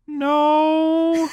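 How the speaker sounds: put-on high little boy's curt no; the timid kid shutting it down; flat kid refusal. Shy boy refusing rides.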